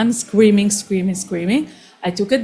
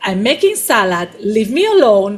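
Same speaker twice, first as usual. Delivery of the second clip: mock irritated snap; 4 dB louder than usual. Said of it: "so reactive".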